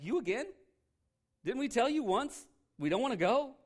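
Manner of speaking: high, loud, exasperated snap at the messenger; angry guests. Acted. Guests snapping at the king's second messenger, angry and loud. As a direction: scold him for coming back. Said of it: "They're like".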